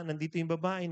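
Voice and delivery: ordinary talk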